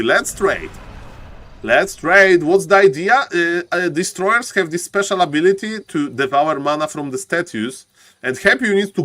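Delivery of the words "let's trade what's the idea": louder urging. Real, not acted. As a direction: call it out louder.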